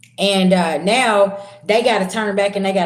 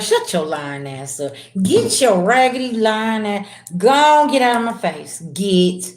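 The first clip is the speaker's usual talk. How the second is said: mock angry dismissal. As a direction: shoo the liar away, half-hammed. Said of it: "And somebody's like".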